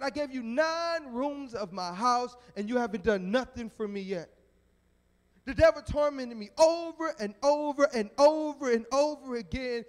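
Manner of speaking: hammed-up indignant rant, hammering the repeats; livid. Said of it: "the man is livid".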